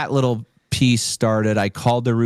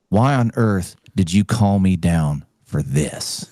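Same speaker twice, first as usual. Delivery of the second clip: put-on grumpy old man; 3 semitones lower than usual. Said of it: "old grumpy dude in an old wrinkled suit".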